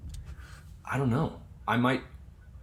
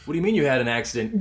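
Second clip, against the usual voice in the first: quoting the other character; 4 semitones higher, 4 dB louder, faster than usual. Retold or imitated. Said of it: "he's like".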